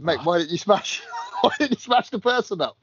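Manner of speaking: lightly hammed-up baffled question; incredulous retort. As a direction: ask it like it's the obvious answer. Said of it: "I said".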